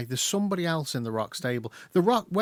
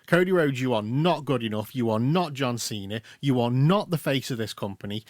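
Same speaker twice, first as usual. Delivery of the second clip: mock Cena put-down. Cena voiced scolding Cody.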